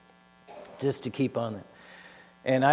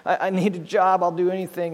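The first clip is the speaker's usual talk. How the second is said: higher pleading to the contractor; desperate begging; 5 semitones higher than usual. Retold or imitated. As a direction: beg like your life depends on this job. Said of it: "and I beg the contractor".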